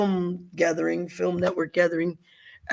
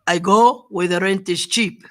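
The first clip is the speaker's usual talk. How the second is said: imitating grandma; 5 dB louder than usual. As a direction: lay down the law like a no-nonsense grandmother. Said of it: "She says".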